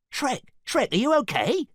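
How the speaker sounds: high, loud worried call; Donkey crying out to Shrek. A narrator's reading. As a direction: cry out in alarm. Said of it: "cried Donkey".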